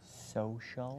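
slow, distinct whisper. Shown as a demonstration. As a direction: whisper each word clearly for a lip-reader. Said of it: "who's gonna whisper to me".

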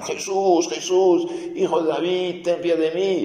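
high mock cry for mercy, pitch way up. Blind man of Jericho shouts to Jesus, high pleading cry. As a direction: call out to Jesus over the crowd. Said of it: "Y empieza a gritar".

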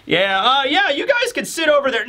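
high, nervous yelp; a cornered clown brushing them off; nervous Buggy. Retold or imitated. Buggy nervous, voiced by retelling.

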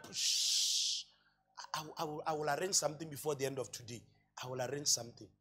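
whispered shush, then soft fast promises; hushed shush. Retold or imitated. Tenant hushing the landlord so guests won't hear, whispered. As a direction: hush him and rush out promises under your breath.

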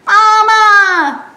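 high wailing call of mama; piglet crying for mama. Acted. Lost piglet calling for mama, high wail. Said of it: "said Piglet".

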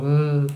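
short closed-mouth grunt. Shown as a demonstration. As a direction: imitate a wordless "mm" grunt. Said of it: "Grugnisce e comunica a versi".

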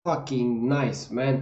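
slow, drawn-out approval; savouring it. Real, not acted. Praising the Santa Claus line, slow relish. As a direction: stretch each word out, relishing it.

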